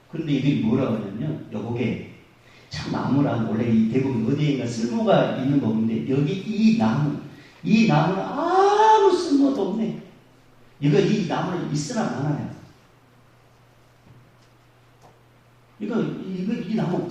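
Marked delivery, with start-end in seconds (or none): 1.5-7.2 mild mock complaint, drawn out; grumbling traveler. Traveler complaining about the tree, lightly mocking. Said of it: "그러면서 막 그랬대". 7.6-10.0 scornful whine. Retold or imitated. Traveler scorns the tree. 10.8-17.1 mild mock complaint, drawn out; grumbling traveler. Traveler complaining about the tree, lightly mocking. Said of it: "그러면서 막 그랬대".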